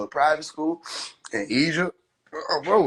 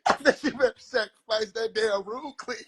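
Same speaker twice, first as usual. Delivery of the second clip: laughing mama voice; 6 semitones higher than usual. Acted. Mama mocking son's sacrifice plan.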